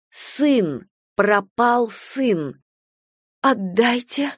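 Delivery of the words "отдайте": ordinary delivery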